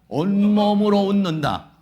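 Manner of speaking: teacher stressing three laughter rules; slow emphatic recital. Shown as a demonstration. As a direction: drill the three rules into them. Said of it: "어떻게 웃는다?".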